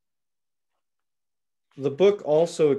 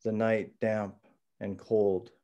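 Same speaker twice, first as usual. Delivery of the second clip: hushed raw poetry. Acted. Reads own poem aloud.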